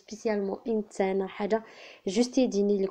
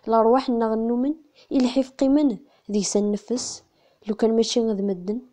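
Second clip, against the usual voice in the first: measured, restrained verse reading; poem recitation; 4 dB louder than usual. Acted. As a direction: recite in short even phrases with pauses. (taɣuri n usefru s leɛqel)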